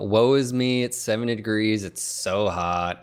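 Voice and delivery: melodramatic mock complaining, slow in places; hammy stage actor. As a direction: ham up a swooning martyr. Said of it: "Oh, I can just hear it now".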